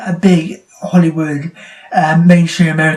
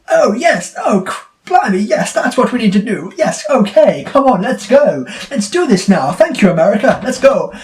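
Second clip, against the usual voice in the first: high, hammed-up English accent; English accent caricature, high-pitched; mock English accent; 4 semitones higher than usual. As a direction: parody eager Brits taking orders. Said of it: "and it's like".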